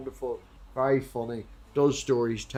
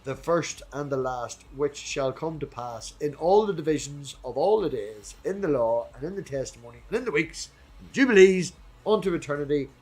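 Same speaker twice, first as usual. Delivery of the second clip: scripture reading. Acted. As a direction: intone it like holy writ.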